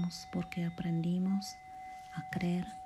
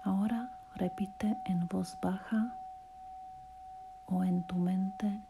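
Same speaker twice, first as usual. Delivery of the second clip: guided meditation; 3 semitones higher than usual. Acted. Podcaster guiding a listener through relaxation and self-love affirmations, guided meditation voice. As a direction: lead the listener gently through each phrase, unhurried.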